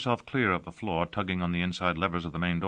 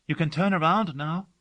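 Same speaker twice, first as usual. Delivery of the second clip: high, louder call across room; 11 semitones higher, 4 dB louder than usual. A narrator's reading. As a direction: call out to him. She calls to him.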